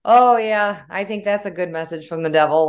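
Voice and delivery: sarcastic. Retold or imitated. Sarcastic retort to friend.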